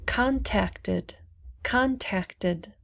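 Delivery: "contacted" in three syllables, ending in "tid"; sounded "id". Shown as a demonstration. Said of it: "so we pronounce the id".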